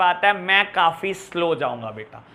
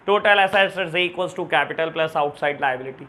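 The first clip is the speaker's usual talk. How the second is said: slow, word-by-word formula read so students can copy it; slow dictation; 3 semitones lower, much slower than usual. Shown as a demonstration. Teacher slowly dictating the formula to students for their notes. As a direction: spell the formula out slowly for the class.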